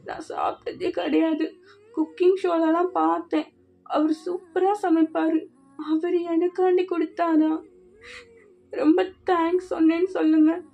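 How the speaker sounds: speaking through light tears; a touch of crying, moved and grateful; tearful. Acted. Girl telling Jungkook about Jin's cooking, teary. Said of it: "ஐயோ, என்ன அழுகுறா?".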